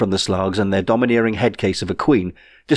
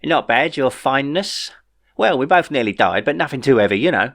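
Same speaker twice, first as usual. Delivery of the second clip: sarcastic; 4 semitones higher than usual. A narrator's reading. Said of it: "amount of sarcasm in his tone".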